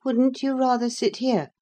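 put-on weary, reluctant young man; unwilling to get up and move. A narrator's reading. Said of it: "a tone which expressed reluctance".

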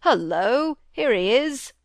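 a loud, glad call from below; glad hullo. Acted. Squire greeting his returning son, loud and glad. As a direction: hail the arriving son gladly. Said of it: "the squire's glad".

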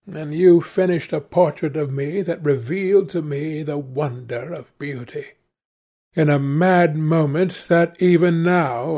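lightly voiced impassioned young man; accusing young Dorian. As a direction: recall each wrong with mild theatrical reproach.

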